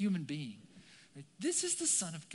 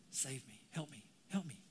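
small plea; 5 semitones lower, 8 dB quieter than usual. Acted. Sinking Peter's plea, acted small.

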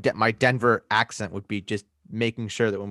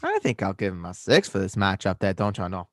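put-on folksy Minnesotan accent; put-on Minnesota accent; 3 semitones lower, 4 dB quieter than usual. Rating a player for co-host, Minnesotan accent. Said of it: "weird guy from Minnesota".

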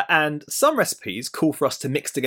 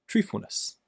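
breathy reveal; 6 semitones higher, 6 dB quieter than usual. Real, not acted. Revealing core truth.

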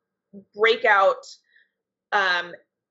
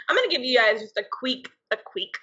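vampire voice; 4 semitones higher than usual. Pretend. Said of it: "do a vampire voice".

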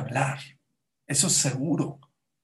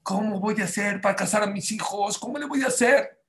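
mock anxious question, rising higher at the end; anguished worrying; 3 semitones higher than usual. Worried parent wondering about marrying off children, anguished. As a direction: fret aloud, pitch climbing. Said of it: "uno se preocupa y se angustia".

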